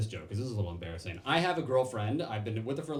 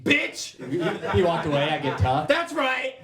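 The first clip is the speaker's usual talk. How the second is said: higher, louder fake-tough shout; tough guy yelling; 5 semitones higher, 8 dB louder, slower than usual. Real, not acted. Comic getting tough with an audience member, louder higher yell. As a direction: puff up and bark at them.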